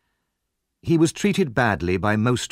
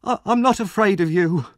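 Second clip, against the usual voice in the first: high, raised voice; defiant shout; 10 semitones higher, 4 dB louder than usual. Acted. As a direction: stand up to him from behind a door. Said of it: "he shouted from the cellar".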